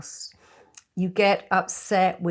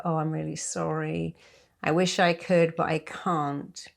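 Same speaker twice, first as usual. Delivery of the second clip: apologetic sorry. Shown as a demonstration. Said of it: "And that's not true".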